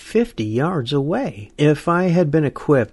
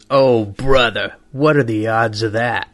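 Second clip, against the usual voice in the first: cranky; 3 dB louder than usual. Acted. Cranky hunter answering the Lord's unlikely tip, grumbling. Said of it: "I'm the cranky one that responds".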